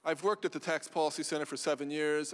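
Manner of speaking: repeated clearly for the room; speaking up. Real, not acted. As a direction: speak up so they can hear. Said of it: "Can you speak up, please?".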